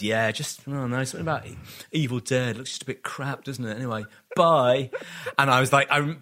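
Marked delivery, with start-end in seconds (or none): 0.0-4.9 feigned nonchalance. Retold or imitated. Boy explaining to friends why he's leaving, feigned nonchalance. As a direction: brush it off and make a quick exit. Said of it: "what I thought was, like, a cool, nonchalant way".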